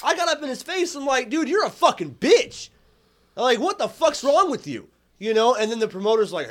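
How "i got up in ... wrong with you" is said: louder, heated retelling of a blow-up; telling the guy off again in the retelling; reliving getting up in his face; retold angry confrontation. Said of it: "I'm like".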